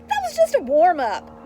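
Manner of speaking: put-on boy shouting back across the field; yelling back. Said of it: "Ricky yells back".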